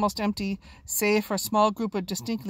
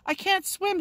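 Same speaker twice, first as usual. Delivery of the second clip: shouted; 11 semitones higher than usual. Acted. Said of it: "he shouted down to her".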